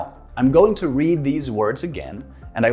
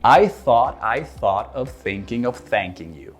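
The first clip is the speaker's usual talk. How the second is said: tongue twister; 2 semitones lower than usual. Shown as a demonstration. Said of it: "tongue twister".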